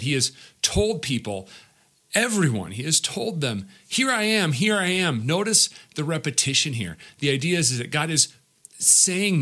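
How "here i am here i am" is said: raised, calling voice. Acted. God calling to his people, raised and earnest.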